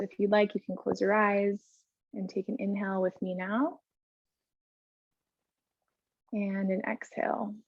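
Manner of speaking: soft, unhurried yoga-teacher voice with long pauses; guided breathing. Real, not acted. Yoga teacher leading the class in breaths together, soft guided breathing. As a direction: gently guide them through each breath, leaving space.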